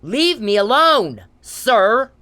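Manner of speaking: angry demand. Real, not acted. Demanding Mister Perry leave her alone, loud. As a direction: push him away with volume.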